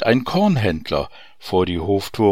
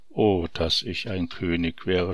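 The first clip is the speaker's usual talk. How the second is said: groaning wish; 3 semitones lower, 7 dB quieter than usual. Acted. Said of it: "stöhnte der Minister".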